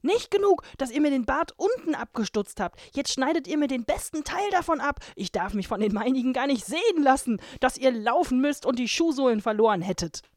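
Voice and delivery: high, loud furious dwarf tirade; dwarf berating the girls, high and loud; screaming dwarf. A narrator's reading. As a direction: shriek at the girls in outrage. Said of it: "schrie er sie an".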